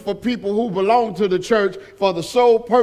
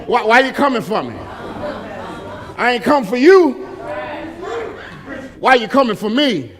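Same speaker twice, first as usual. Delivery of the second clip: a lightly voiced slangy Jesus, half laughing; casual Jesus. Preacher voicing Jesus as a buddy asking Saul, lightly played. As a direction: play it loose and street, like a friend asking. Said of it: "Jesus Christ addresses him and wants to know".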